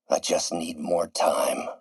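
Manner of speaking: low, slow musing to himself; brooding plea. Acted. Repeats his plea, brooding alone.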